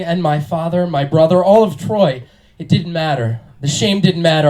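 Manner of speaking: earnest amateur Paris; bad acting. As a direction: overwrought audition reading. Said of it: "playing the role of Paris".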